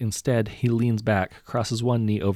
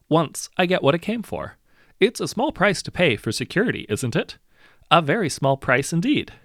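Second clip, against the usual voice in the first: higher, louder, oily menace; gloating villain; 9 semitones higher, 6 dB louder than usual. A narrator's reading. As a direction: savour every word of the threat. Hero gloats over his price.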